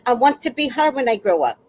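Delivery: lightly mock Caribbean accent, quick; put-on Caribbean accent. Fan showing off her newly learned accent, playful Caribbean imitation. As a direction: try out a Caribbean accent at a brisk clip. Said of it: "I'm already using the accent".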